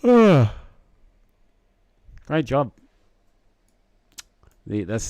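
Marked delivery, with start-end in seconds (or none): 0.0-2.7 excited. Real, not acted. Praising a viewer's model.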